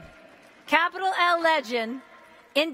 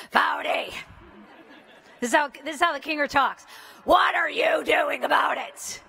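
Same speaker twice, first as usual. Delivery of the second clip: imitating the Kinger. Speaker imitating her mentor challenging her bluntly. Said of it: "she said it actually like this".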